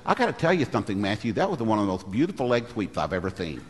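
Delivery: soft lisped praise; lisping instructor. Retold or imitated. Instructor praising Matthew's leg sweep, lisping. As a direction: imitate the lisping coach, S sounds turned to TH. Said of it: "speaks with a little bit of a lisp".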